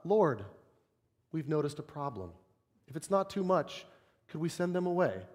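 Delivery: soft, overly polite mock-reverent request. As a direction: ask it timidly, like humble servants.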